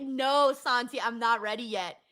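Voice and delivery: quiet resignation. Real, not acted. Telling Santi she's not ready, softly deflated. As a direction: let it sink in and go quiet. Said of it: "I'm gonna cry".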